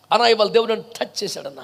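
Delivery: low, quick, hushed confiding; lightly mocking undertone; mock testimony. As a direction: imitate a believer confiding, softly and fast. Mimics a self-satisfied believer.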